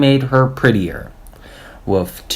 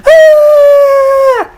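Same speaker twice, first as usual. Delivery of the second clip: piercing high scream, much higher and louder; girl's scream; 7 dB louder than usual. A narrator's reading. Leslie screaming when her pigtail is yanked, sudden high scream. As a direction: let out a sudden shriek of pain. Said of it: "Leslie screamed".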